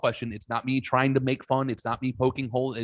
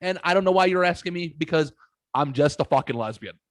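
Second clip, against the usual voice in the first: imitating exasperated daughter; 4 semitones higher than usual. Retelling a friend's daughter answering his rant, mock exasperated. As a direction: throw it up like you give up. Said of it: "most fucking, your daughter way, throws her hands up".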